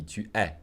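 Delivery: "tu es" with the S kept silent; unlinked "tu es"; no liaison. Shown as a demonstration. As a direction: leave the S unsaid, no Z. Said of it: "Otherwise, it would be".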